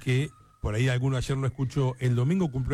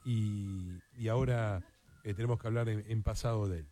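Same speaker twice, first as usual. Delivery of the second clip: quiet, grave tribute; somber; 3 dB quieter than usual. Real, not acted. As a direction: break sad news gently, with respectful pauses. Announces a former coach's death.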